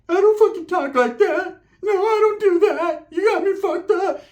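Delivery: slow high-pitched cousin impression; whiny, near tears. Shown as a demonstration. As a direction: drag it out high, as if about to cry. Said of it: "sounds like he wants to cry".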